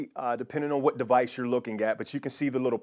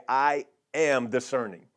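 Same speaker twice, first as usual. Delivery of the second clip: call and repeat; slower than usual. Shown as a demonstration. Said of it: "So somebody just say right now".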